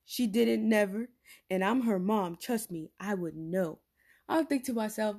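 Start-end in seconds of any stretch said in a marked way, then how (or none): 0.0-3.8 firm mom. Retold or imitated. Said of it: "She goes".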